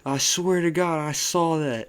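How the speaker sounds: high, pleading insistence; defensive to a doubting friend. Retold or imitated. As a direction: swear it's true. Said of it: "getting defensive".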